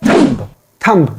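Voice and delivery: "thumb" with the final b sounded; "thumb" ending in an audible b; mispronounced thumb. Shown as a demonstration. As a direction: say "thumb" as tum-b. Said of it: "It is incorrect way".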